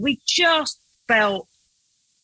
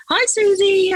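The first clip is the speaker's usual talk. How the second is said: bright call up the stairs, higher and louder; calling sweetly; 11 semitones higher, 5 dB louder, slower than usual. Retold or imitated. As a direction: call up to her kindly. Mum calling up to the teen.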